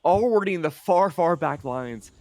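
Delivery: high, loud esports call; excited play-by-play. Real, not acted. Caster calling a teleport from shadows, excited. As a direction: call the play with a jolt of energy.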